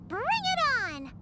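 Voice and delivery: drawn-out, high rallying cry; squeaky cartoon battle cheer; eager challenge. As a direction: stretch it out, raring to go. Sidekick accepts the challenge.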